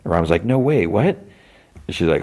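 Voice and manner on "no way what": high-pitched, surprised reaction; mock disbelief. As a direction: imitate a friend caught by surprise, voice jumping up. Retold reaction to dropping out.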